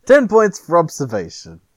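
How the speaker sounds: muffled behind a hand; hand over mouth. Real, not acted. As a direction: speak through your hand. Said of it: "You have your hand over your mouth".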